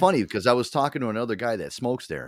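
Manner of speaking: ordinary delivery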